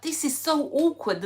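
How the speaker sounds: a touch of squirming awkwardness; awkward inner voice. Retold or imitated. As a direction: sound cringing and stuck. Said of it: "I'm just like".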